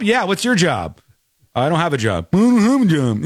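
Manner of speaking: put-on childish taunting comeback; mocking echo. Shown as a demonstration. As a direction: parrot the line back to sting. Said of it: "see, fire it back".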